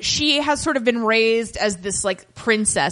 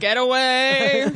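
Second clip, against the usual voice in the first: retold brush-off; 3 semitones higher, slower than usual. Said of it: "You're like".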